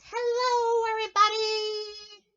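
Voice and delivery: high, loud furry monster voice; Grover voice. Acted. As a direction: greet them like a cheerful muppet. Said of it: "He says".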